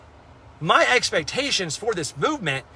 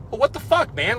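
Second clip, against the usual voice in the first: incredulous retort; 6 semitones higher than usual. Retold or imitated. Retold comeback to blaming friend.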